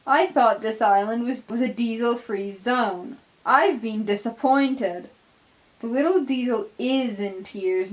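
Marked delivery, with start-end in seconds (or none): 0.1-5.1 sneering. Acted. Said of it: "Donald sneers".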